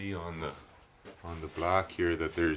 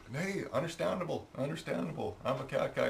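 high, put-on calling voice; re-enacted reply; 8 semitones higher than usual. Cat guy reassuring the dog's owner, high re-enacted voice. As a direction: pitch it up, replaying your own answer. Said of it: "I said".

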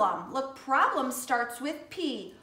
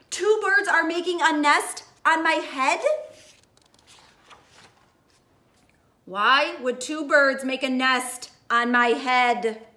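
Elephant worried; 5 dB louder than usual. Acted. Elephant voice in read-aloud.

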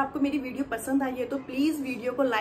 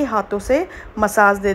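muffled while rubbing face; talking through cupped hands; hand over mouth; 5 semitones lower, 8 dB louder than usual. Real, not acted. Seen 0: Hands cover mouth while massaging wet face, about 2-3.4s.

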